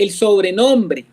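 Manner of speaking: "sobrenombre" drawn out slowly for emphasis; stress on SOBRENOMBRE. Shown as a demonstration. Teacher pointing out Paul's wording, slow stress on "sobrenombre". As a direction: dwell on the word "sobrenombre". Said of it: "Mire que dice".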